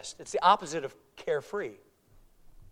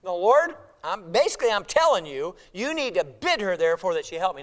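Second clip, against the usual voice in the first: louder, insistent demand; pushy; 6 dB louder than usual. Retold or imitated. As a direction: push the Lord to do your will. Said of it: "she gets pushy".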